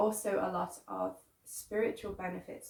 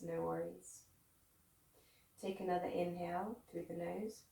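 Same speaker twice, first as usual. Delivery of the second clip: guided meditation. Real, not acted. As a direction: guide them gently inward, leaving room to breathe. Leads a guided breathing meditation.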